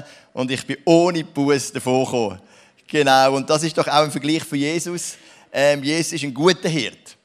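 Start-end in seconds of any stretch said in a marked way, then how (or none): 5.5-7.2 "guter" leaned on firmly; stress on gut. Shown as a demonstration. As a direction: hit the word "guter" hard. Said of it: "mit Betonung auf gut". (Betonung auf "guter")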